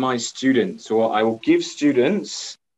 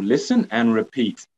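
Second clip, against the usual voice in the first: instruction. Shown as a demonstration. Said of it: "So for example".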